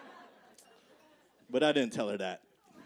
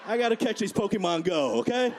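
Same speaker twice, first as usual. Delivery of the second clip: put-on higher old mother's grumble; mother muttering behind her son, higher; 5 semitones higher than usual. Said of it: "I could hear her say".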